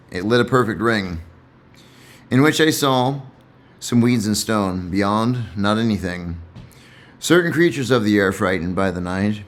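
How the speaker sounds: measured, deliberate poetry recital; poem reading. Acted. Reader reciting his favourite dark poem, measured. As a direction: let each line land in cadence.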